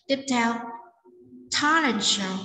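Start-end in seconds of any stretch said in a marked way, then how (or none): 1.6-2.4 "talent" stressed above "show"; teacher's model with the weight on "talent". Shown as a demonstration. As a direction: lean on "talent", let "show" drop back. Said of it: "chúng ta nhấn vào talent".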